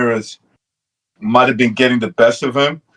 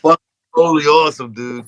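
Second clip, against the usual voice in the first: stoner surfer voice; 3 semitones higher than usual. Acted. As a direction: talk like Cheech and Chong. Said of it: "Sounds like Cheech and Chong".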